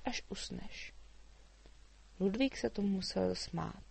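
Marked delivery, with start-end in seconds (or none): 0.1-0.9 softer, whispered ending; hushed. A narrator's reading. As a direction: drop to a whisper. Girl mimics tiptoeing quiet. (šeptem)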